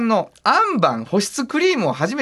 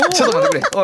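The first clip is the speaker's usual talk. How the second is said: high, laughing protest; startled; 3 dB louder, faster than usual. Real, not acted. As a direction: burst out in amused disbelief. Host startled by the letter. (笑いながら驚いて)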